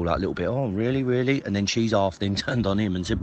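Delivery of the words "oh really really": higher-pitched mock-neutral questioning; feigned impartiality. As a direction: imitate someone politely playing it noncommittal. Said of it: "still trying to be impartial".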